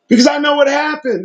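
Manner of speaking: lightly voiced stern God; the Creator. God telling the angels he knows, lightly voiced stern. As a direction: speak as God who knows all. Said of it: "This is the Creator".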